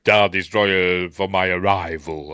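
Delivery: mock dark lord whisper; whispered Vader. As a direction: breathe the order menacingly. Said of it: "In the special edition".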